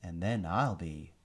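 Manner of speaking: high, slow sneering alien villain. Acted. Alien commander gloating over captured prince, high sneering villain voice. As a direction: savor every word like a gloating tyrant. Visser voice.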